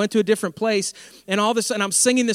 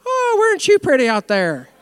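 sarcastic taunt; 6 semitones higher, 7 dB louder than usual. Retold or imitated. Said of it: "there's sarcasm in the Bible".

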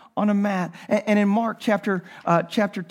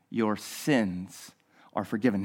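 hushed, much softer delivery; soft forgiveness; 13 semitones lower, 10 dB quieter than usual. Acted. Jesus looks at the paralytic and says it hushed. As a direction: let it fall gently like a blessing.

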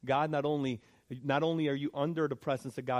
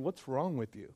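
dismissive rebuke; 2 semitones higher, 3 dB quieter than usual. Retold or imitated. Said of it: "another brother was sitting next to him saying".

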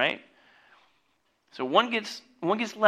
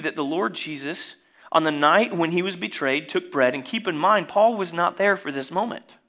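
usual speaking voice

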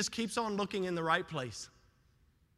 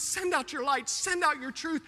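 raised, urgent petition; pleading with God; 4 semitones higher than usual. Acted. Psalmist begging God for light, earnest pleading. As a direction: press the request as a plea. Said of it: "he's pleading with God".

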